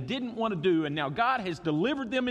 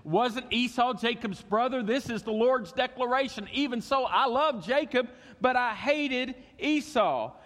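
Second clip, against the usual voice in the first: voice of God; 7 semitones higher than usual. Acted. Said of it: "He says".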